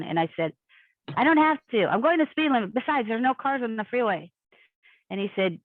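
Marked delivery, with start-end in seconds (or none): 1.2-4.3 mildly indignant comeback; defiant retort. Retold or imitated. Defensive reply to George on phone.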